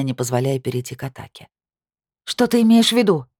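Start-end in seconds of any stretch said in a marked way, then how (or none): 2.2-3.3 higher, louder angry snarl; growled warning. Acted. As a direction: snarl back defensively. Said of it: "прорычала я".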